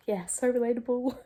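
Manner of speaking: dry, deadpan "so relatable" with a sigh before it; sarcastic. Retold or imitated. Reader mocking the book's line, dry sarcasm. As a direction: say "so relatable" as an eye-rolling jab.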